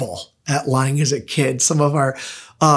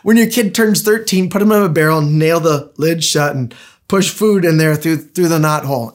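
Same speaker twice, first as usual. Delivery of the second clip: amused retelling; 2 semitones higher than usual. Retold or imitated. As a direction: punch it up the second time for the laugh. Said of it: "that was his advice".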